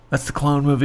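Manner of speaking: slight lisp on "clone movie", Delco accent; "that's the clone movie" with a Philly-area Delco lilt. Real, not acted. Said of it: "It sounded like you said that with a lisp".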